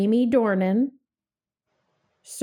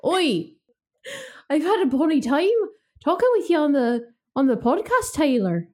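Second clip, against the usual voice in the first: a quick, hammed-up Irish accent; bad Irish accent, rushed and cheerful; 4 semitones higher than usual. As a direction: put on a mixed, amateur Irish accent, fast. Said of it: "I'm gonna get my Irish accent out".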